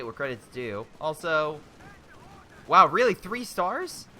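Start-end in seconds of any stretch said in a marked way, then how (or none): 2.7-4.1 loud delighted wow really; real pleased surprise; surprised. Real, not acted. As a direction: pop up in happy disbelief. Reacting to three stars.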